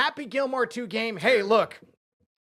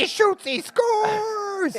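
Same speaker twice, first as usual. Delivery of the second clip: excited cheer; 12 semitones higher, much slower than usual. Pretend. Cheering his own lucky shot.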